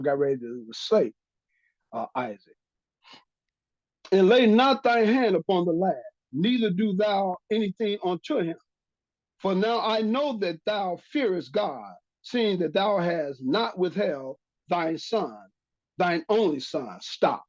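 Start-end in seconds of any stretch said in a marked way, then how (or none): 4.1-14.4 scripture reading. Acted. Reads scripture aloud. 14.7-17.0 slow weight on "thine son, thine only son"; emphatic scripture reading. Acted. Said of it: "There's an emphasis being put on this".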